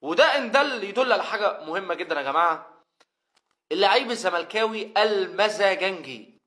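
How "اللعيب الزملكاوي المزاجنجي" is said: one-breath catchphrase. Shown as a demonstration. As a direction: run together all in one go. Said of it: "هي بتتقال على بعضها كده".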